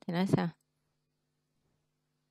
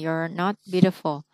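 slow three-word reading. Shown as a demonstration. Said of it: "mình đọc là ba chữ này".

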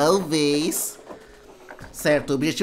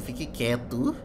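bem baixinho e tenso; sussurrando; 6 semitones lower, 11 dB quieter than usual. Real, not acted. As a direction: fala baixo para não ser ouvido. Escondido no jogo.

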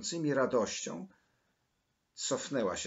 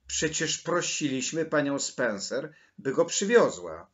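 loud, higher, indignant protest; insistent; 4 semitones higher, 7 dB louder than usual. A narrator's reading. Maryla reminds Mateusz what they had asked, indignant insistence. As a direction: press the point, rising in volume. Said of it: "nalegała Maryla".

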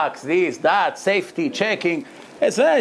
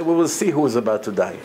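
smiling confidence; 5 semitones lower than usual. Retold or imitated. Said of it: "Moshe would smile and say".

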